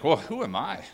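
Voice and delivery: a mildly put-on, unsure Moses; doubting Moses. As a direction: lightly voice Moses brushing off God's call. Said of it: "Moses is like".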